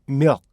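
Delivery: milk cut off before the k is released; swallowed final k. Shown as a demonstration. Teacher shows the k changing inside sentences, unreleased k. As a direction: say "milk" as "myuk", stopping short on the k. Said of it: "문장 안에서 이게 발음될 때는요".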